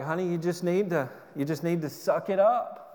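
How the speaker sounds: lightly imitated sweet voice; a hint of a sweet, kindly rebuke; mildly sugared tough advice; Mary Pruitt. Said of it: "in that sweet Mary Pruitt voice".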